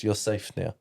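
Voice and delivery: soft, lightly voiced reassurance; retold reassurance. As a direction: gently imitate a protective sister. Retold reassurance from protective sister.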